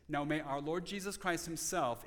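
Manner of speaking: verse quoted with emphasis on "himself"; stress on HIMSELF. Shown as a demonstration. Preacher shows where the emphasis falls, stress on "himself". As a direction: let the phrase lead to a stressed "himself". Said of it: "is on the word himself".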